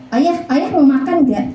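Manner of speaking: coyly hinting instead of asking; hinting indirectly. Shown as a demonstration. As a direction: fish for it without saying it outright. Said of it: "Jangan pakai bahasa-bahasa". (menyindir secara tidak langsung)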